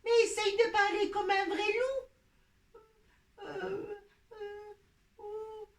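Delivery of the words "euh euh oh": put-on small hesitant baby wolf voice; tiny timid little cub. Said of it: "t'as retrouvé ta voix de bébé".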